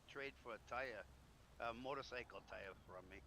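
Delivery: ordinary delivery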